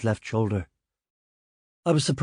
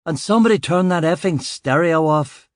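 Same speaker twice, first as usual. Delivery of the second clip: yell; 5 semitones higher than usual. Acted. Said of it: "I yelled".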